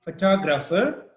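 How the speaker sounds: photographer stressed on the second syllable TOG. Shown as a demonstration. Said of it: "The second is photographer".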